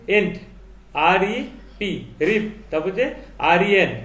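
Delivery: slow, broken into syllables: এন্ট, আরইপি, রিপ. Shown as a demonstration. Teacher to student, showing the word split up slowly. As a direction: spell out each chunk slowly. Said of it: "এটা ভেঙে ভেঙে পড়বি".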